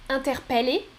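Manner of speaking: interpeller as "in-ter-pè-lé"; second variant. Shown as a demonstration. Teacher repeats choice two, interpeller with open È. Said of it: "Je répète, écoutez bien".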